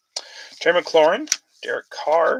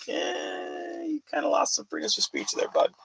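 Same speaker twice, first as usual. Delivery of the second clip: much higher, teasing scold to a buddy; mocking retort; 4 dB quieter than usual. Answering the coach's honesty talk with a high mocking scold. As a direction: talk down to him with a sarcastic pitch jump. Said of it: "I'm like".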